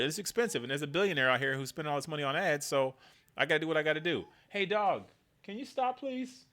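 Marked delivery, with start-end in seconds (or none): 4.5-6.4 pleading with dog. Real, not acted. Speaker to his dog, high fading plea.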